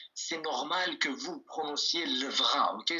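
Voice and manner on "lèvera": "lèvera" with a French throaty R; French accent. Shown as a demonstration. Teacher showing learners an acceptable slip, French-accented "lèvera". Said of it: "ça sera un petit accent français".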